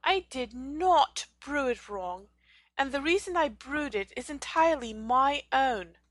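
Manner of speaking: forceful indignant denial. A narrator's reading. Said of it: "Hermione was indignant".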